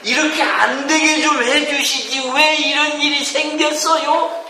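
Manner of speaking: hammed-up grumbling believer crying aigo; mock whining prayer. Preacher mimics believers blaming God in prayer, mock wail. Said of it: "결과들을 놓고".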